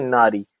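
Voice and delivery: नारी with a long आ, as the right form; teacher gives the proper नारी; correct form said. Shown as a demonstration. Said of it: "लिखा है नहीं".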